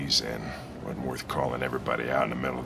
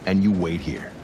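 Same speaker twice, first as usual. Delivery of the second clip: louder, insistent order; angry command; 5 dB louder than usual. Acted. Cop repeating his order to the android, angry. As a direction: drive the order home loudly.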